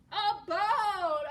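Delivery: high, loud burst of delight; excited exclamation. Acted. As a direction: announce it like a big reveal. Exclaims at the picture reveal.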